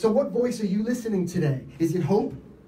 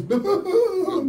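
drawn-out boom; 12 semitones higher, 4 dB louder than usual. Retold or imitated. Describing the car explosion.

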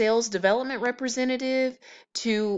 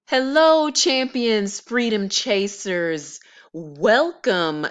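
excited greeting; 5 dB louder, slower than usual. Real, not acted. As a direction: greet the viewers with big energy. YouTuber's hyped opening greeting.

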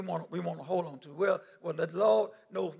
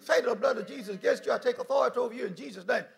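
rebuking Satan; 2 semitones higher, 7 dB louder than usual. Pretend. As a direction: command the devil to leave. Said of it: "you rebuke".

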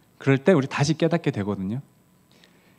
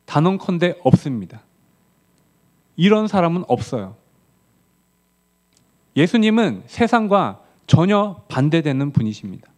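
higher-pitched, emphatic sermon delivery; emphatic preaching; 5 semitones higher, 4 dB louder than usual. Real, not acted. Preacher declaring no such leader exists in the world, emphatic. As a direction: preach it with conviction, driving each phrase home.

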